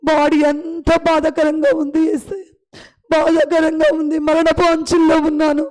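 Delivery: fervent prayer. Acted. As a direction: pour out the need before God. Long prayer voiced for childless mother. (వేడుకునే ప్రార్థన స్వరం)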